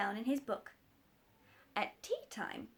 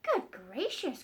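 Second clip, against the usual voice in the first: surprised; 3 semitones higher, 3 dB louder, slower than usual. Acted. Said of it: "cried the doctor".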